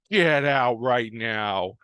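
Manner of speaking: gruff barman's slow eviction order; mock angry order. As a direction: play the barman kicking him out, deliberately slow. Pub owner throws Davis out.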